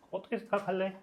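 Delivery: lifted pitch, eased volume; teacher's soft high model read. Shown as a demonstration. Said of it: "이겁니다".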